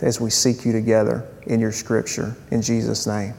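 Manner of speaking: even, subdued pastoral prayer. Real, not acted. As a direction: pray aloud for the congregation in a steady, low-key voice. Leads a prayer.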